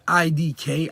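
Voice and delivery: I D K spelled out slowly and firmly; emphatic. Real, not acted. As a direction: give I D K slow, deliberate weight. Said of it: "is an emphatic".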